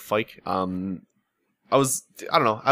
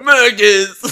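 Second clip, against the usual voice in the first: louder, higher far-off call; hammed-up call; 7 semitones higher, 8 dB louder than usual. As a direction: call out desperately. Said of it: "game quote reply".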